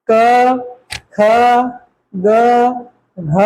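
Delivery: क, ख, ग, घ spoken one by one from the throat, with pauses; clear letter demo. Shown as a demonstration. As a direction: sound out क, ख, ग, घ separately, like a teacher. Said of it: "अब इनको बोल के देखो सबको".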